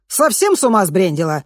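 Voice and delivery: indignant. A narrator's reading. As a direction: scold her for the fuss. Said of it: "возмутилась она". (возмущённо, громче)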